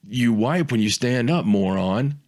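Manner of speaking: ordinary talk, nothing marked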